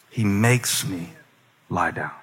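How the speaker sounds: slow, low and soft, sinking on lie down; hushed echo. Shown as a demonstration. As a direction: let the verse settle quietly. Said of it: "red light".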